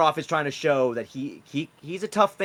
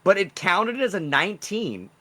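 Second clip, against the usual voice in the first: higher, louder puzzled protest; baffled surprise; 7 semitones higher, 5 dB louder than usual. Real, not acted. Game master puzzled by a glitchy die roll, surprised. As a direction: marvel at something that makes no sense.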